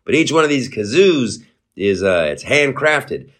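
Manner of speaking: lightly voiced deadpan comedian impression; a hint of a dry deadpan comic selling nonsense; barely-changed deadpan comic voice, mock sincere; Norm Macdonald. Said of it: "I'm suddenly, I'm Norm Macdonald".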